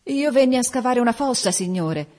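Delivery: lightly voiced fear, answering a ghost; faltering gravedigger. A narrator's reading. Gravedigger explains himself to the ghost, faltering. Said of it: "balbettò Gabriele Lombrico".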